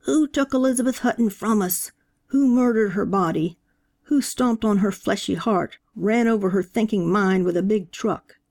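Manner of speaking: a hint of a fire-and-brimstone preacher questioning the mourners; preaching. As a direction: press the questions on the congregation. Preacher holds the room.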